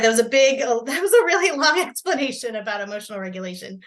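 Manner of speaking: laughing at herself mid-apology; embarrassed laugh. Real, not acted. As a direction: giggle through the sheepish apology. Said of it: "So sorry".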